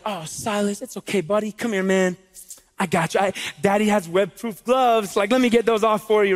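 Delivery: put-on gently comforting a small child; tender, indulgent father voice; soothing dad. Voices gentle option of comforting son.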